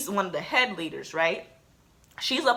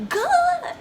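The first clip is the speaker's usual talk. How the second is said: tag; 5 dB louder than usual. Retold or imitated. Mom's reaction to the firing.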